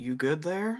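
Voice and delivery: softly spoken, quiet aside. A player's character leans over to Omega to check on them, quietly. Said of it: "just quietly say".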